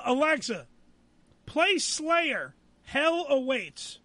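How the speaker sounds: slow, spaced words for a voice assistant; careful voice command. Real, not acted. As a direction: enunciate each word to the device.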